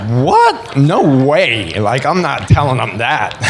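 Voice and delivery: refusing God's odd request, half laughing; incredulous what. Retold or imitated. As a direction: yelp the what?, then laugh off the idea. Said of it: "And I'm like".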